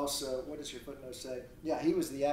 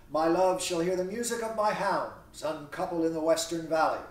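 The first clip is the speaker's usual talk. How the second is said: louder, projected verse reading; declamatory reading; 5 dB louder than usual. Acted. Theseus boasts of his hounds to his bride, declamatory. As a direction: read the verse out to the class. Reads Theseus's lines aloud.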